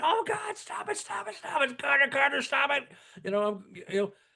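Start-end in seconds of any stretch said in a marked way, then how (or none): 0.0-2.9 put-on, high, frantic, pained, pleading scream. Retelling a friend hooked while fishing: imitating a friend screaming in pain. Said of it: "he was screaming bloody murder".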